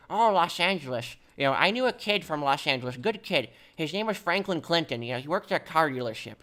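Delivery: put-on a touch of a chatty old man drifting off topic; understated old-timer voice; old person's voice. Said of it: "Oh, do the voice?".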